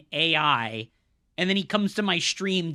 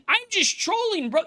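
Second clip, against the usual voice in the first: much higher, squeaky sneering mimicry; mocking troll; 13 semitones higher than usual. Streamer imitating people who say they're trolling, squeaky mock. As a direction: ham up the dumb excuse, mocking. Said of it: "and saying".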